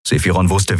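ordinary delivery

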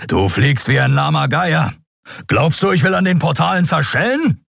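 high, scornful rebuke; angry Keru. Acted. Keru berating Endriel's flying, high and scornful. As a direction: tear into her flying.

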